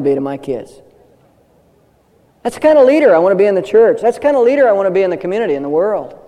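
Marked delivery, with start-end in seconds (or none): 2.4-6.2 quick, raised, rousing; building preacher fervor. Real, not acted. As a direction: drive it home with fire. Rising sermon climax.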